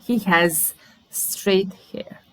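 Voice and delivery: breathy whisper; a real whisper. Shown as a demonstration. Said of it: "Whisper to me".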